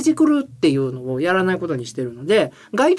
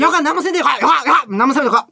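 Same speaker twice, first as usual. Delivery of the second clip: urgent raised shouts at a smart speaker; full-force Kumamoto dialect; 5 semitones higher than usual. Shown as a demonstration. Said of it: "私は全力でスピーカーに". (全力の熊本弁で制止)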